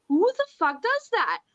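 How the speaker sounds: high indignant who the fuck; mock outrage. Retelling finding the scooter, high mock outrage. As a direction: act out being fed up. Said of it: "And I was like".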